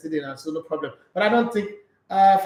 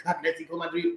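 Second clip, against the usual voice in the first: mock Holy Ghost preaching. Host spoofing Holy Ghost preaching on his show, lightly overwrought. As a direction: stretch it out like a pastor in the Spirit. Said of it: "those Holy Ghost things".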